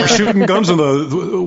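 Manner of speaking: put-on American accent set against the Canadian take. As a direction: say it the American way, stretched out. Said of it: "How would they say that in America".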